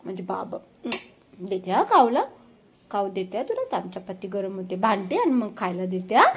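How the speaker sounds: calm a hungry pet gently; soothing reassurance. Real, not acted. Soothing the dog before feeding. (समजावत हळू आवाजात)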